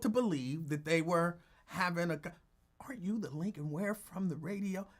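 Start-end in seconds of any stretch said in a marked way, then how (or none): 2.8-4.9 imitating Jimmy. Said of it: "Jimmy the Vet would say that".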